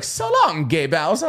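chirpy Italian plumber voice; Mario impression. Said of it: "back in the day it was like".

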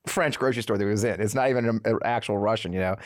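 normal talking voice

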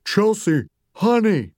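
high, distressed mother figure; sad Mommy. A narrator's reading. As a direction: plead sadly with her child. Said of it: "Mommy seemed sad".

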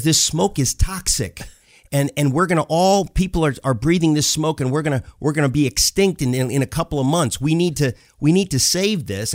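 lightly hammed-up alarmed girl; angry little girl. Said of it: "this angry little girl".

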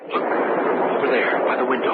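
slow, breathy warning; alarmed whisper. Acted. Whispering to George about the window. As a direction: point it out under your breath.

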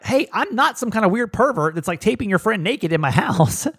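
high-pitched retold protest, laugh breaking in near the end; freaking out. Man defending himself to the woman he dates, freaking out. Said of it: "then I'm freaking out".

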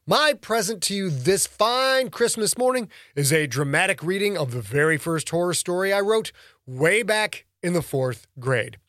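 plain reading voice

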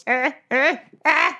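short acted grunts of panic; panicked stammering noises. Halfling looking back and forth in the crowd, mock panic noises. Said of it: "like, in a panic".

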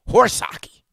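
loud, high-pitched dismissal; scornful outburst. Real, not acted. Host rejecting executives' excuses, scornful outburst. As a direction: shout it down in open disbelief.

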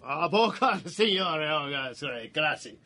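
put-on Italian-accented polite patter. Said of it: "his Italian accent".

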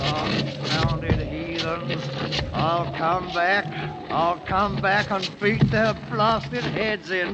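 slow, seething threat; slow muttered vow of revenge; bitter vow. Acted. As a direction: grind out the revenge. King vowing revenge while fleeing.

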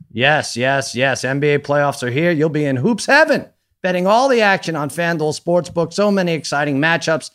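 lively sponsor read with punched phrases; upbeat ad read. Acted. Host plugging a sportsbook to listeners, upbeat ad read. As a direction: sell it like a podcast host reading an ad.

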